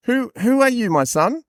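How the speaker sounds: high, theatrical questioning father; hammed-up Bible patriarch; old father's character voice. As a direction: ask it high and stagey. Repeats Isaac's line in voice.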